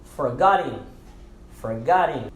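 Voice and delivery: "forgotten" with the TT not crisply sounded, ending in "in"; silent T, IN ending. Shown as a demonstration. Teacher models "forgotten" for learners, T silenced. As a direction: end "forgotten" in "-in", no hard T. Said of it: "ele se torna in".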